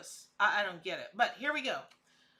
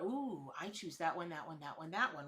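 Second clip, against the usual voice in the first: giddy ice cream pick; 6 semitones lower, 6 dB quieter than usual. Retold or imitated. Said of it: "me in an ice cream store".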